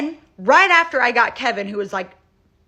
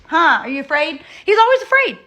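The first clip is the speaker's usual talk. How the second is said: higher, louder pet-talk voice; talking to the dog; 6 semitones higher, 5 dB louder than usual. Real, not acted. Owner coos at her frightened dog, high pet talk.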